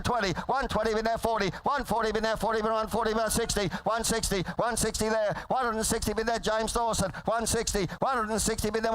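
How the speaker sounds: rapid rolling auctioneer chant; frantic trading floor shouting. Real, not acted. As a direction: rattle off the bids like an auctioneer. Auctioneer calling bids.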